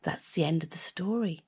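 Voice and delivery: fast hushed whisper. A narrator's reading. Narrator to listeners, a hushed close. Story closing.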